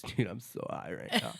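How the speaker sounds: lightly voiced stoner. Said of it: "You do that so good".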